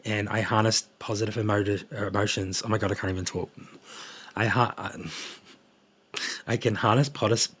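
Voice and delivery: stumbling over the words, jittery; nervous tongue-tied restart. Real, not acted. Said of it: "I'm getting all jittery".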